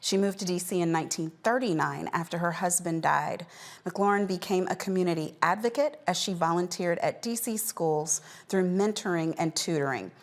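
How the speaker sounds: measured anchor reading an obituary; news read. Acted. Host reporting a beloved centenarian's death to viewers, measured news read. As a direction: deliver it as a closing news story.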